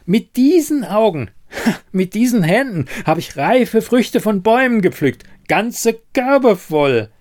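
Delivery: high, loud, pressing each proof; agitated. Acted. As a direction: hammer home every detail. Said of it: "erregte sich Siren".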